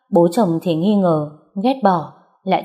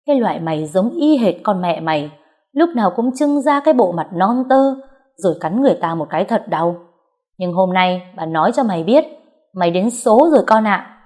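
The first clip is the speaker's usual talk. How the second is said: threatening. Acted. Mother-in-law threatening the girl. (mẹ chồng đe dọa con Dương, giọng nanh nọc)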